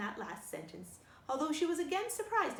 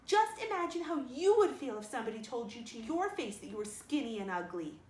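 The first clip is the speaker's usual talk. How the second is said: tearful plea; 4 dB louder than usual. Acted. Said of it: "pleaded Anne tearfully".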